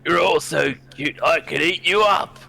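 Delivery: loud doting voice, rising at the end; gushing over cute animals. Acted. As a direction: gush over them like you could eat them. Co-player gushing over kittens.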